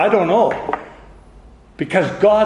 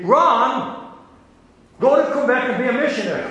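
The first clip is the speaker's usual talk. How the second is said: the Lord's voice; 6 semitones higher than usual. Retold or imitated. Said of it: "then the Lord says to me".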